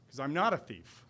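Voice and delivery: ordinary talk, nothing marked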